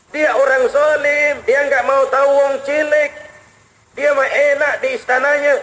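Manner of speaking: the mother's outrage, now pushed harder; bitter accusation. Retold or imitated. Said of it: "kata Ibu tadi".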